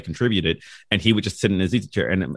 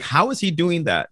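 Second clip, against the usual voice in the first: amazed grandmother; 9 semitones higher than usual. Retold or imitated. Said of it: "my grandmother's like".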